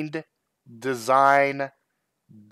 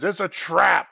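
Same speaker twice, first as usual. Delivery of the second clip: Star Wars quote; 6 semitones higher, 3 dB louder than usual. Retold or imitated. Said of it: "the dude from Star Wars that says".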